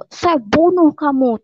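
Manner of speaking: retold shout. Older brother threatens convert sibling with death, imitated shout. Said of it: "dia terus teriak, teriak kenceng banget".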